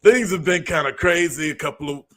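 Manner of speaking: mock nervous celebrity apology, throat clearing; Will Smith impression. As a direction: play the awkward apology video, lightly voiced. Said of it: "Let me do my Will Smith impression".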